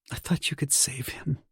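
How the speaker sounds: high, soft woman's voice; wife's voice. A narrator's reading. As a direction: voice the grieving wife up high. Wife's tearful quote voiced by husband.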